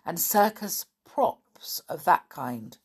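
lively, expressive storybook reading; storyteller voice, leaning on key words; children's story narration. A narrator's reading. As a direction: read it to children with animated dialogue and dramatic pauses. Reads a children's story aloud.

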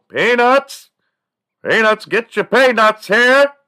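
very high, loud, slow stadium hawker call; peanut vendor call. Retold or imitated. Peanut vendor calling to the ballpark crowd, loud high hawking. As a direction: belt it across the stands like a vendor. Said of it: "imitating them".

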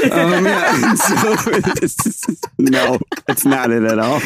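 high giggly laughter; laughing. Real, not acted. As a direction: laugh through the words. Laughing at own brag.

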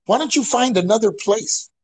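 imitating a fussy complaining lady; lightly mocked prim older white lady. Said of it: "And she goes".

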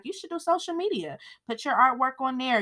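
lightly voiced chirpy lady; eager advice. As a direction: pitch the idea with quick enthusiasm. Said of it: "the lady is telling her, like".

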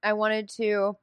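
numb mouth; frosty mouth. Real, not acted. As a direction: talk through a cold, numb mouth. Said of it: "I have frosty mouth. I'm having trouble talking 'cause my mouth is numb".

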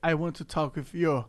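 slow English, heavy Brazilian accent; inglês com sotaque brasileiro. Real, not acted. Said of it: "o sotaque é uma merda mesmo". (inglês devagar com sotaque brasileiro)

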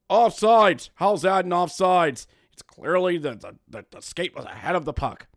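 a hint of a loud indignant fan; mildly mocked outraged fan; mock know-it-all fan. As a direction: lightly imitate a fan yelling at the ice. Mocking know-it-all fan behind.

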